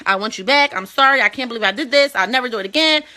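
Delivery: imitating someone begging forgiveness; acted apologetic pleading. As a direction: plead lightly to be taken back. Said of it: "because you're sorry".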